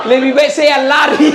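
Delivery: loud, slow, laughing line; laughing jinn. Retold or imitated. Jinn fleeing the nagging wife, laughing. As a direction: deliver the punchline through laughter.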